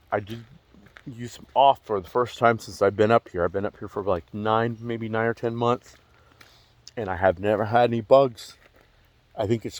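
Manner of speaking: slight lisp from a retainer; talking around a retainer with a lisp. Real, not acted. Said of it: "I'm gonna have a little bit of lisp".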